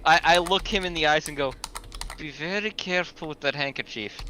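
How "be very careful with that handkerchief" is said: understated, serious in-character warning; a measured, earnest caution; dead serious. Acted. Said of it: "all seriousness".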